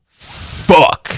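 voiceless, drawn-out curse; a retold oh-no moment, all breath; dismayed quote. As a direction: let it out as an airy, sinking curse. Acted reaction on finding the song.

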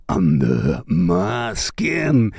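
the song title dropped low and drawn out slowly; low dramatic title. Pretend. Vlogger hyping a gothic rock song, low slow dramatic title. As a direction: intone the title deep and slow like a gothic announcer. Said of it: "A really cool song".

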